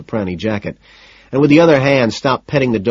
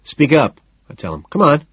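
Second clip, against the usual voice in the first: raised, higher-pitched demand; impatient order; 5 semitones higher, 4 dB louder than usual. A narrator's reading. Narrator urges mumbling man to answer, impatiently. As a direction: prod him loudly to answer.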